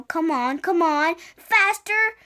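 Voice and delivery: urgent, building command; ordering. A narrator's reading. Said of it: "Jack ordered".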